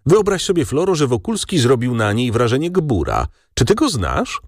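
a hint of a chatty older gentleman at dinner; father telling his cousin about his daughter, lightly voiced.

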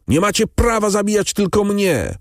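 very high screamed protest, PRAWA hit hardest; the same protest now screamed while wrestling the helpers; frantic scream. A narrator's reading. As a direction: scream it at the executioners. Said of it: "Skazany wrzeszczał bez przerwy".

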